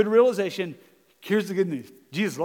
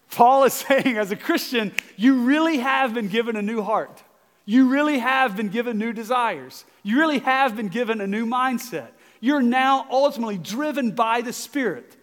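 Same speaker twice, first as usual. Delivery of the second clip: louder, higher preaching build; preaching with force; 4 semitones higher, 6 dB louder than usual. Real, not acted. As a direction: drive it home to the congregation. Preaching at rising intensity.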